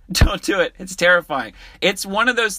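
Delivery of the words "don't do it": laughing warning. Real, not acted. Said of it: "laughing repeat of warning".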